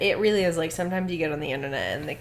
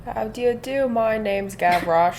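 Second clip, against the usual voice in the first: put-on Cockney accent; 3 semitones higher, 5 dB louder than usual. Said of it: "insane Cockney accent".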